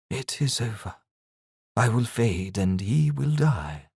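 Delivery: a betrayed demon accepting her end; defeated demon. Acted. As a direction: beaten demon mourning her fate, dying away. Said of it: "a tear formed in her eye".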